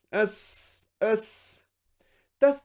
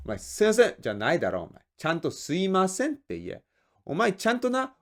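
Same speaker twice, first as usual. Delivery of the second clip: scolding boss; much faster than usual. Acted.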